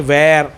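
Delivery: where said as one smooth wer, no extra sound; correct where. Shown as a demonstration. Teacher modelling the right where after the wrong one. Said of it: "where में एस silent है".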